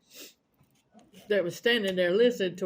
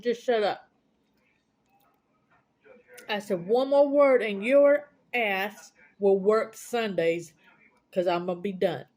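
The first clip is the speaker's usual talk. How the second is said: retold yelling match. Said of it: "a yelling match".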